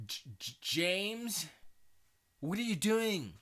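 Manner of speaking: high-pitched, stammering mock scolding; Kaz. Kaz confronting Jim over what he said, mock-exasperated. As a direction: stumble on the name, then scold high. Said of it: "and Kaz is like".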